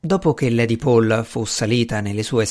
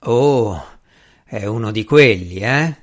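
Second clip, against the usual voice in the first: a touch of scorn, slightly louder; mildly disdainful "Oh, è uno di quelli, eh?"; contemptuous; 3 semitones lower, 3 dB louder, slower than usual. Acted. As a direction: sneer lightly at this kind of man. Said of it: "disse Strange con disprezzo".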